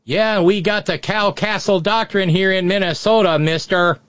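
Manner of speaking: put-on light Minnesota accent. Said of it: "in my bad Minnesota accent".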